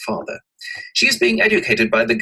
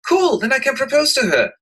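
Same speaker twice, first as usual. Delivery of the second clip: eager delight; 5 dB louder than usual. Acted. Eager suitor voiced.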